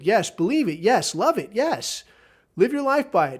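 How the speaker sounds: a half-mocking, climbing "yes" chant; building enthusiasm. Real, not acted. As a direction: build like a cheering preacher. Listing what believers should do.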